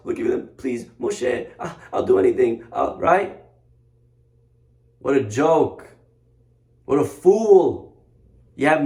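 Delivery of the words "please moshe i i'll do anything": small, halting imitation of a cowed pleader; mock timid begging; little mouse begging. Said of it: "he's running like a little mouse".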